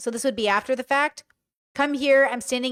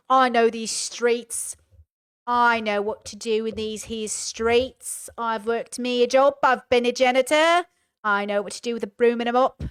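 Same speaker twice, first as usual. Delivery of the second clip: mock tough guy. Mocking tough street talk.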